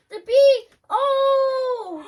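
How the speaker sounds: high, loud delighted cry; excited squeal. Real, not acted. Finds bee in slime.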